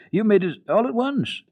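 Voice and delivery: put-on high, amazed little girl; a small girl who can't believe it; astonished child. Heidi marvelling at grandfather's work, high astonished child voice. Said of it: "still deeply astonished".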